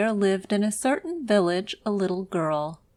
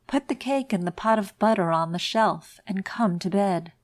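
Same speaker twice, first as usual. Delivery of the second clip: muffled under the bedclothes. Acted. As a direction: speak as if under blankets. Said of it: "in a muffled voice".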